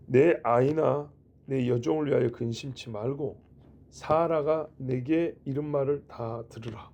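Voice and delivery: slow, measured reading of God's decree; solemn scripture reading. Acted. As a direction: read the verse out deliberately, phrase by phrase. Reads God's words from scripture.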